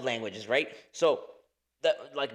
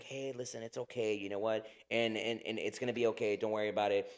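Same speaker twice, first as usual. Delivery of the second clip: soft, reassuring retold dad voice; calm things down quietly, like an easygoing dad; imitating calm dad; 4 dB quieter than usual. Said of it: "my dad is very calm".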